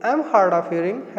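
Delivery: slow model sentence. Shown as a demonstration. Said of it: "थोड़ा तेजी से बोलो".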